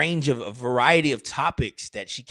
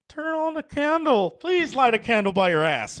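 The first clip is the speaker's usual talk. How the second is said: high mock plea; 9 semitones higher than usual. Acted plea.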